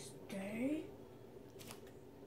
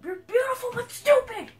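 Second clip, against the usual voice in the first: high taunt; 11 semitones higher, 4 dB louder than usual. Real, not acted. Taunting Ender Dragon.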